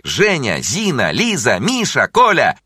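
eager high shouts building to a loud peak; children shouting. A narrator's reading. Pupils calling their names to the new teacher, rising shouts. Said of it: "И все закричали".

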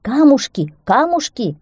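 high, loud hare squeals; excitable high-pitched yelping; squealing. A narrator's reading. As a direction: squeal urgent orders. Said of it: "верещал заяц".

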